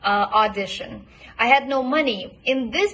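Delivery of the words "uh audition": "Audition" with a full, pure ah as in father; don't reduce the first vowel of "Audition". Shown as a demonstration. Coach showing an unreduced first vowel in "Audition". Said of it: "don't reduce it to a schwa".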